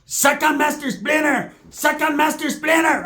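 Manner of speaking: very high, slow put-on voice; mock high voice. Pepe in the bedroom, in a very high slow put-on voice. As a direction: drag it out very high. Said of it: "Straight up".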